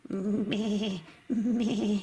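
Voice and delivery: low, bleating meh; sheep bleat. Acted. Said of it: "I'm a little sheep".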